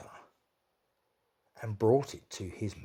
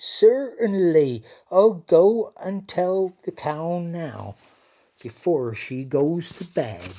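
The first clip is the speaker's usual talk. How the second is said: high, slow, louder dairymaid voice; a keen young maid, happy to help; bright servant girl promising to go at once; eager dairymaid; 7 semitones higher, 11 dB louder than usual. Acted. Dairymaid answers the queen.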